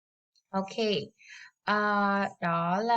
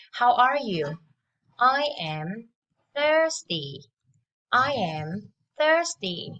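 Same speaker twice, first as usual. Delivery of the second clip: loud drill; 2 semitones higher, 4 dB louder than usual. Shown as a demonstration. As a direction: call it out for the class to echo. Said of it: "let's listen and repeat after me".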